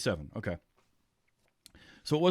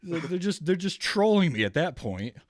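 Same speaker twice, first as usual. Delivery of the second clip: higher, amused, still half laughing; amused disbelief; 8 semitones higher than usual. Real, not acted. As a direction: tease it with a laugh in the voice. Laughing at subtitle joke.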